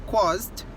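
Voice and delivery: CAUSED in a single syllable ending zd; "caused" with no vowel before the final d; correct pronunciation. Shown as a demonstration. Teacher restating the right form, caused in one syllable. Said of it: "not ca-, caused".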